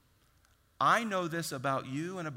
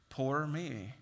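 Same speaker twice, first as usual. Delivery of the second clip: resigned sigh of self-pity. Retold or imitated. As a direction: mumble poor me as if giving up. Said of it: "self-pity".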